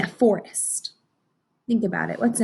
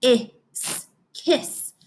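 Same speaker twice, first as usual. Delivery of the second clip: put-on imagined child thinking; 8 semitones higher, much slower than usual. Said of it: "you might think".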